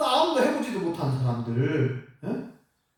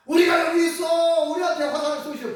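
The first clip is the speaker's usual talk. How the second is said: mock call; 6 semitones higher than usual. Choir calling to enemy archers, mock shout.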